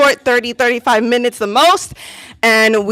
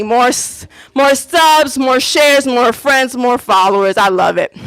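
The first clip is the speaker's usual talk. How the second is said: louder, rallying the live chat; excited hype; 5 dB louder than usual. Real, not acted. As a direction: pump up the crowd for subs and shares. Hyping viewers to subscribe.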